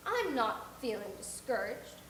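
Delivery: dry. Acted. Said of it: "was Marilla's dry response".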